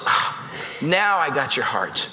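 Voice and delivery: low, slow and hushed, as God; God's voice. Pretend. Pastor voicing God answering a surrendered prayer, low and slow. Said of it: "prayer, God goes".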